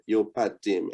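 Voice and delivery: yo PA dim with PA as pah; Creole yo pa dim. Shown as a demonstration. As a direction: open ah in pa of Yo pa dim. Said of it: "make an effort and pronounce it ah".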